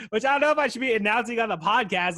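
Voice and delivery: laughing through the words. Real, not acted. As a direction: chuckle while confessing.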